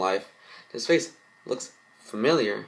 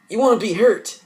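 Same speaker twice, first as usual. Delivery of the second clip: high angry snap; 13 semitones higher, 10 dB louder than usual. Acted. Girl lashes out at Lincoln.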